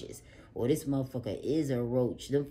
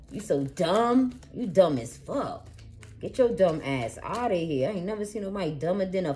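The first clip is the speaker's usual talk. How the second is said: mocking insult; 3 semitones higher than usual. Insulting the secret-keeper.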